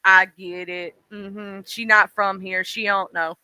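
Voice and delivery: lightly voiced unimpressed local; mock knowing New Yorker. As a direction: imitate a New Yorker shrugging her off. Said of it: "you're like".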